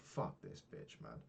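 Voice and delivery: a sullen muttered swear at the fitness lady; low muttered curse. Retold or imitated. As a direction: grumble it low, fed up with her. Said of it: "I was like".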